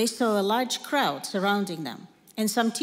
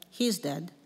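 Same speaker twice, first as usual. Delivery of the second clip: soft, lower murmur of a stunned crowd; a crowd murmuring that the boy is dead; 4 semitones lower, 6 dB quieter than usual. Acted. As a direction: murmur it under your breath. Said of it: "A murmur ran through the crowd".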